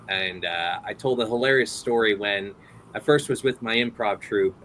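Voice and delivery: ordinary talk, nothing marked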